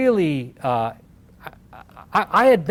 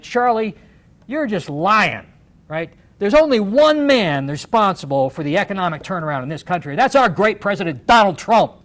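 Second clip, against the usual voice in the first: a rising, louder jab at a rival; calling him out; 4 dB louder than usual. Retold or imitated. Candidate confronting Charlie on stage, loud challenge. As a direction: build the attack to a loud finish.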